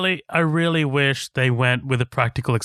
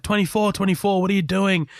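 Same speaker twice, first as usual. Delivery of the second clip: higher mock call of a panicked scientist; lightly voiced doctor trying to rein him in; alarmed doctor calling out; 8 semitones higher than usual.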